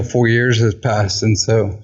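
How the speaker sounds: slightly winded from walking; out of breath. Real, not acted. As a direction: talk while walking on a treadmill. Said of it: "if I sound out of breath, 'cause I'm literally walking".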